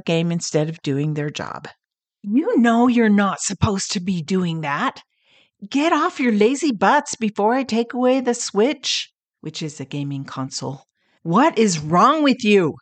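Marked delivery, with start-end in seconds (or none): 2.3-12.8 a mother's mock scolding, higher and sharper; angry mother scolding. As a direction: mom snapping at her lazy kids, acted out. Mother yelling at gaming sons.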